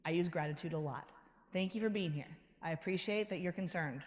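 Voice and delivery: calm, grateful self-talk; gently acknowledging the worry; gratitude. Shown as a demonstration. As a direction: thank the inner voice kindly. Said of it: "Acknowledge it".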